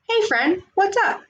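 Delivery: bright neighborly hello from the steps; cheerful man calling out a greeting; Joe's greeting. Acted. Joe greets the girl.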